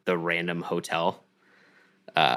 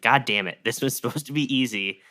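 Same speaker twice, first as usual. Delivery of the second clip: higher, louder mock tantrum; hammed-up fit of rage over a botched job; mock temper tantrum; 5 semitones higher, 3 dB louder than usual. Kidnapper after being shot, a mock angry tantrum. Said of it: "throws a giant temper tantrum".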